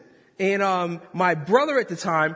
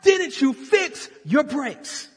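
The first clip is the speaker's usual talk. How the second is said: loud, high, slow mock yell; angry brother shout; 8 semitones higher, 4 dB louder, slower than usual. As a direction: yell at your careless brother. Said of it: "he's like".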